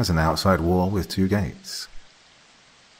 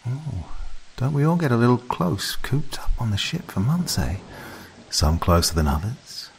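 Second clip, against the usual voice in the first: sly, higher teasing sister voice; 4 semitones higher than usual. Acted. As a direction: tease him, half whispered. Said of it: "fell to teasing".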